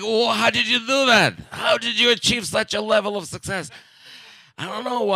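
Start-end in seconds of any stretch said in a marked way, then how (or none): 0.0-3.7 1 quoted admirers. Retold or imitated. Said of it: "people are like".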